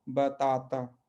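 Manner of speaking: drawn-out demo of बताता with dental t; Portuguese pronunciation. Shown as a demonstration. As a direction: model बताता slowly, stretching each open aa. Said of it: "मूल जो है पुर्तगाली शब्द बताता है".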